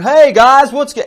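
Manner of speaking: big loud, high Georgian drawl greeting the room; booming Georgian accent. Retold or imitated. Imitating a Georgian acquaintance greeting friends in a booming accent. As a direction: boom it out like a Southern Georgian guy.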